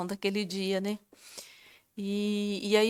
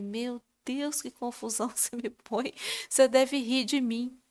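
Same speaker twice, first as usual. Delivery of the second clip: retold prayer with a little laugh; amused; 2 semitones higher than usual. Woman teasing God about the confusion He puts her in, amused. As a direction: chuckle at your own muddle while addressing God. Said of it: "eu vim e achei graça".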